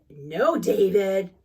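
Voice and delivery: slow, low scolding mother; stern mom. Acted. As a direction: draw out a firm warning to a child.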